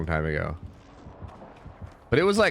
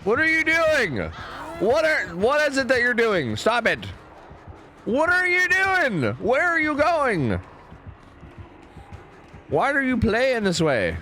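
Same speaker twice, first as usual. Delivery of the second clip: much higher, drawn-out pleading whine; squeaky exasperated nagging; 11 semitones higher, slower than usual. Acted. Griping at a teammate who keeps wandering off, in a high squeaky whine. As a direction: whine at him in a squeaky put-on voice.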